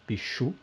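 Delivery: pichu with the stress on the final "chu"; stress on last syllable. Shown as a demonstration. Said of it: "é a, a última".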